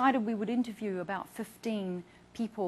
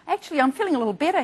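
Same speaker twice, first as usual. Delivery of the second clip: retold reply; 7 semitones higher, 11 dB louder, much faster than usual. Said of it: "he said".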